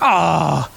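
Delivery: let-down "aw"; acted groan of disappointment; disappointed groan. Dad loses Hulk Smash night, disappointed groan. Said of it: "I'm disappointed".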